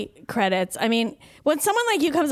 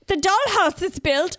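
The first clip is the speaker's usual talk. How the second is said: a lightly voiced stern German, slowed and a bit higher; half-hearted stern German line, drawn out; mock stern German; 5 semitones higher, slower than usual. Recalling a failed sketch, a mild stern German voice. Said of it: "German and stern".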